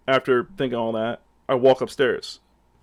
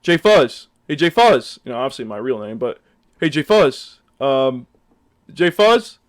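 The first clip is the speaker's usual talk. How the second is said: louder call across the street; calling out a name; 4 dB louder than usual. Retold or imitated. Uber driver calling out to find his rider, loud. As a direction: call to someone you're picking up. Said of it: "he was like".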